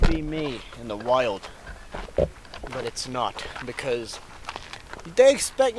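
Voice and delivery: exaggerated nature-show host voice; pumped-up wilderness guide narration; survival show host.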